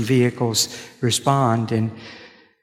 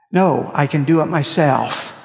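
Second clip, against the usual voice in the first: stubborn woman quoted; 4 semitones higher, 4 dB louder than usual. Retold or imitated. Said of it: "he said".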